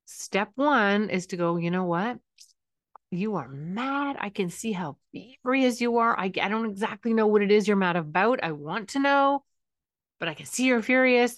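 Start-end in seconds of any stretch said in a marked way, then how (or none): 1.6-11.4 calm mirroring. Shown as a demonstration. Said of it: "start by matching their affect a little bit".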